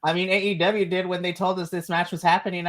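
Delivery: ordinary delivery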